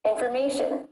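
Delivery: "Information" with a strong third syllable, MAY; overpronounced stress. Shown as a demonstration. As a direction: model "Information" for repeating, clear stress on MAY. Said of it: "try to overpronounce the stress".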